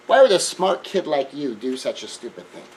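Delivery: a mild, calm question from a mother; lightly voiced mother, asking without heat. Mother calmly asking her son why he did it, mild and even. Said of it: "she wasn't quite so calm about that".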